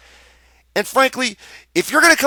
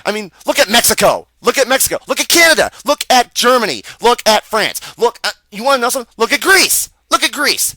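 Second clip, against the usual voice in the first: higher-pitched, exasperated listing; worked-up rant, pitched high; heated ranting; 5 semitones higher than usual. Real, not acted. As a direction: rattle off examples in mounting exasperation. Heated rant listing other countries.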